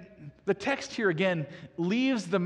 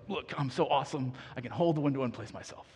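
mock show-off; 5 semitones lower, 4 dB quieter, faster than usual. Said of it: "show off all my muscles and go".

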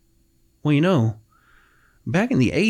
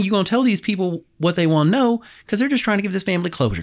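higher, pleading mother; mother pressing her son to do right, a bit higher; lightly voiced mama; 8 semitones higher, faster than usual. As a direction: urge him gently as his mother.

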